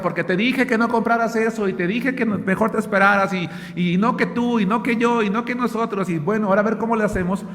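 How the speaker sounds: reproachful, rising quarrel voice that speeds up at the end; a hammed-up spat between spouses; mock marital quarrel. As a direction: act out a couple blaming each other over money. Acted couple quarrel over debts.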